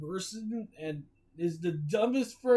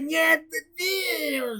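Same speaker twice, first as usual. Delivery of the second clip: deep gravely voice; 13 semitones higher, 4 dB louder, much slower than usual. Acted. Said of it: "Came a deep, gravely voice".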